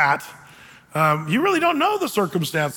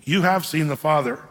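almost exasperated. Retold or imitated. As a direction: act out a lightly exasperated appeal. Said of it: "he's almost exasperated, going".

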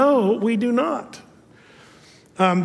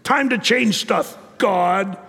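mock bossy; 3 semitones higher than usual. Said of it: "act like they're big shots telling God".

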